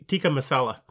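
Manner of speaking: "tikka masala" said plainly, with no put-on accent; understated, unaccented "tikka masala". Shown as a demonstration. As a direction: say "tikka" ending in uh, without any lilt. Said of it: "there's no accent".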